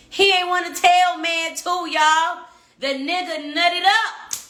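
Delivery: loud, slow scoff at him; 1 loud mocking disbelief. Real, not acted. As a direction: call it out to the crowd. Mocking his cowardice.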